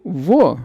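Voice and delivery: "vô" with a closed o; closed vowel. Shown as a demonstration. Teacher gives a circumflex example to students, "vô" with closed o. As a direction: round and close the o in "vô". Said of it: "Se a pronúncia for uma pronúncia mais fechada".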